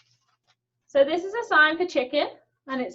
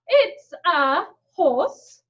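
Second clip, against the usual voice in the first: slow delighted surprise; 4 dB louder, much slower than usual. Acted. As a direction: gasp then slowly reveal the horse. Discovering horse.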